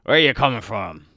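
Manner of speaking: a loud, gruff northern guard voice; northern guard accent. Acted. Gate guard challenging the gnome, in a northern accent. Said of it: "in a thick northern accent".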